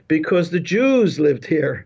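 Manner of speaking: put-on slow, light Indian accent; a hint of an Indian accent, unhurried. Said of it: "in this Indian accent and says".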